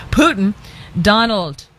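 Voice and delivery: lightly put-on Russian accent. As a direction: say the name like Putin with a hint of Russian. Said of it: "I just hear it in a Russian accent".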